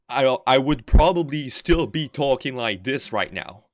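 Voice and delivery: heavy French Canadian accent, slowed down. Shown as a demonstration. Showing friends how he'd otherwise talk, French Canadian accent. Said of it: "with a very heavy, uh, French Canadian accent".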